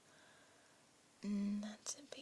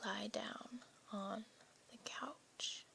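slower, insistent whispered order; firm whispered command; slower than usual. Acted. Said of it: "That wasn't a suggestion".

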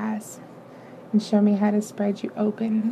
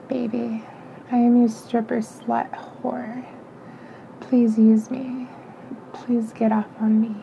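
soft seductive whisper into the ear; 3 dB quieter than usual. Acted. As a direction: breathe it close to his ear. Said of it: "I whisper into your ear".

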